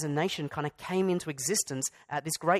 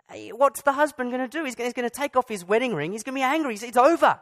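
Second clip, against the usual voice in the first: higher and louder, rising to a near shout; heated buildup; 8 semitones higher, 6 dB louder than usual. Acted. Preacher voicing the husband's fury, heated and louder. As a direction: work up to outraged climax.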